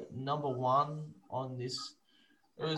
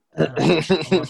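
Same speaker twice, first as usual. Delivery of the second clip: incredulous yell; 3 semitones higher, 14 dB louder, much slower than usual. Retold or imitated. Outraged reaction to the commentary.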